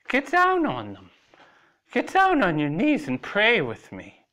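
high, loud stern order; commanding. A narrator's reading. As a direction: bark it down at him. Lily commands him to kneel.

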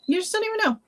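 excited high-pitched repeat. Real, not acted. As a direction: lift it up in a gush. Repeating line emphatically.

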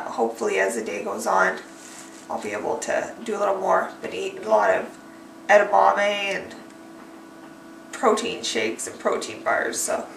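quiet, drained voice after surgery; barely getting the words out; weak after surgery. Real, not acted. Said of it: "I feel like I'm gonna throw up again".

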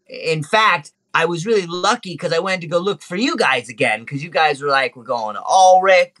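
lightly voiced monkey telling his tale; chatty little monkey. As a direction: recount your adventures in a small creature voice.

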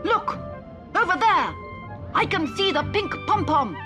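very high, loud excited robot shout. Acted. Digby spots the pom-pom, high excited shout. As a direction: yell it out thrilled, pointing. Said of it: "Digby shouted".

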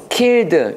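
"killed" said out clearly as a model; pronunciation demo. Shown as a demonstration. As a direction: model the word "killed" for learners. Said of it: "요렇게 말하면 되겠고요". ("killed" 발음 시범)

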